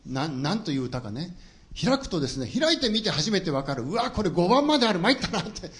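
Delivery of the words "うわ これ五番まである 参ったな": higher, louder groan of complaint; mock dismay. Boy finding the hymn has five verses, acted dismay. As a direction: exclaim in comic dismay at the discovery.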